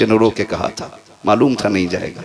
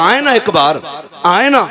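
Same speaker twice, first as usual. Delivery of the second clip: anguished pleading; 9 semitones higher than usual. Acted. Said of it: "जब बच्चे ने तड़प के ये बात कही ना".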